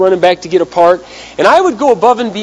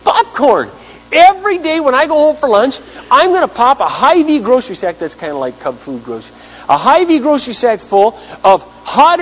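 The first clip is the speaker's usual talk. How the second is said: retelling his own eager plan in a raised voice; excited plan; 4 semitones higher than usual. Retold or imitated. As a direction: burst out with the bright idea like an eureka.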